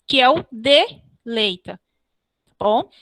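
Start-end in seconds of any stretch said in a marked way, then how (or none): 0.5-1.8 "deleita" slowed and split after "de"; "deleita" said in measured pieces; tonic syllable demo. Shown as a demonstration. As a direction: separate "de" from "leita" to show the syllables. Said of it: "o som tônico da última sílaba".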